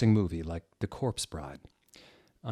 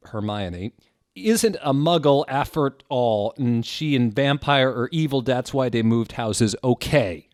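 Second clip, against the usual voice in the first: hammed-up ditzy teen author; mock author voice; 3 semitones higher, 6 dB louder than usual. Reading the author's note to viewers in a hammed-up teen voice. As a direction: read it like a shrill angsty fan.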